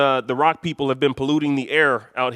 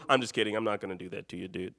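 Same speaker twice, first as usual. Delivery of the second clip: ordinary delivery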